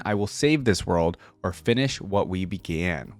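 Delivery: measured, solemn storyteller read; dramatic lore reading. Acted. Streamer reads the champion biography to viewers, solemn epic narration.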